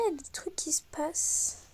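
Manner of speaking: soft unvoiced whisper. Real, not acted. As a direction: breathe it as a secret aside. Whispered aside to viewers. (chuchoté)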